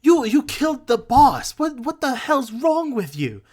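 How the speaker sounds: high, loud, stammering goblin outcry; shocked goblin. Acted. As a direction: cry out in horrified disbelief. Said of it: "this one up here is just like".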